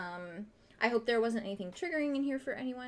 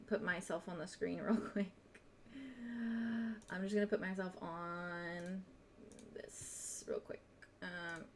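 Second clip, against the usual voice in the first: muttering to self; 3 semitones lower, 8 dB quieter, slower than usual. Real, not acted. Muttering to herself while setting up.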